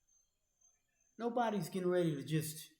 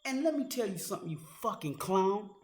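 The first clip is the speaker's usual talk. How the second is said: yelling higher and louder, building rage; raging at a critic, furious shout; 6 semitones higher, 6 dB louder than usual. Real, not acted. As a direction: scream the questions at him. Furious rant at a veteran.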